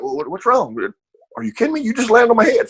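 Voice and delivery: high, mock bewildered protest. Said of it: "He's like".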